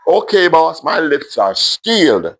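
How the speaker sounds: put-on high playful child, slow on sealed; chirpy little girl. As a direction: chirp it like a cheeky five-year-old. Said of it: "She chirped humorously".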